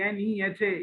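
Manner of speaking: slow "एन ई एच ए", each letter apart; letters said separately. Shown as a demonstration. Teacher likening wrong reading to spelling a name, slowly. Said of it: "कह रहे हो अलग से".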